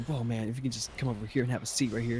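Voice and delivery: lightly voiced chirpy guy; peppy guy. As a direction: imitate an over-friendly, upbeat host. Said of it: "This, like, weird peppy guy".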